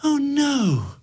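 high anguished cry; a sudden stricken cry; cried out. Acted. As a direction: despair breaking from her. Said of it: "cried out".

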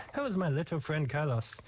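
lightly put-on Italian accent; bad Italian accent. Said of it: "I'm doing the really bad Italian accent".

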